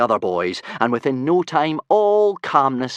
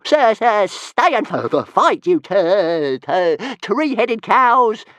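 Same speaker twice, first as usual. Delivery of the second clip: much higher, louder stammering taunt; insulting shout; 11 semitones higher, 8 dB louder, slower than usual. Acted. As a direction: jeer after the fleeing herd. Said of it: "he shouted insultingly".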